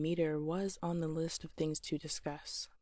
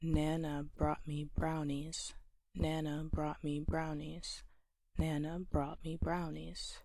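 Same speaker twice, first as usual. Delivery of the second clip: NA-na BROUGHT me BROW-nies in a steady beat; rhythmic stressed beat. Shown as a demonstration. Teacher tapping on laptop to each stressed syllable, rhythmic beat. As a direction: chant "Nana brought me brownies" evenly, landing on NA, BROUGHT, BROW. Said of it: "every time I say a stressed syllable".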